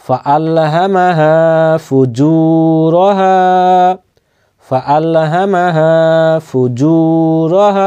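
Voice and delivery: slow Quran recitation with long held vowels; joined-up recitation. Shown as a demonstration. Teacher joining two words for learners, slow drawn-out recitation. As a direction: chant it slowly on an even note, stretching each madd. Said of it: "এই দুইটাকে মিলাতে হবে".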